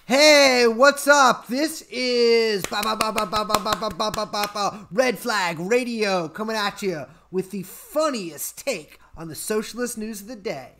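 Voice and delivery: hammed-up radio host in mock Brooklyn accent. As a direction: open loud in Brooklyn-style radio patter. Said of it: "A Brooklyn accent?".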